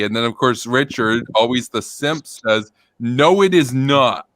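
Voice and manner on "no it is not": slow, emphatic mock denial; wound-up denial. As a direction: read it out as if ending on an exclamation point. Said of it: "exclamation point".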